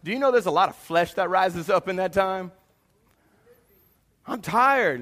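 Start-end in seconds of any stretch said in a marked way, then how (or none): 4.3-5.0 higher-pitched tired complaint; mock complaint. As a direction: complain of being worn out. Acting out own tiredness to wife.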